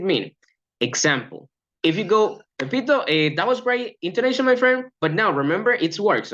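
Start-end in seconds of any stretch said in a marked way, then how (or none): 2.6-6.3 wrong way. Shown as a demonstration. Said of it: "That is totally wrong".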